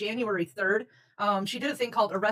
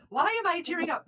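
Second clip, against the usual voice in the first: laughing; 9 semitones higher than usual. Retold or imitated. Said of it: "and I'm like".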